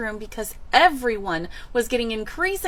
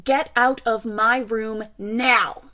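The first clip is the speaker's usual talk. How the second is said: slow, emphatic mock shout; retold shout; 4 dB louder, slower than usual. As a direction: re-enact a restrained shout, word by word. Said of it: "I did shout the words".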